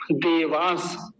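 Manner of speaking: देवास said alone, very slow, stopping there; slow split pronunciation. Shown as a demonstration. Teacher breaking the word into parts for learners, slow. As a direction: pause after देवास as a teaching step. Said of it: "इतने पर रुक जाएंगे".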